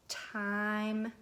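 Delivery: word drawn out in two separate parts, "Timeless"; read part by part. Shown as a demonstration. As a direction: stretch "Timeless" slowly, pausing before the last part. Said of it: "Read it with me".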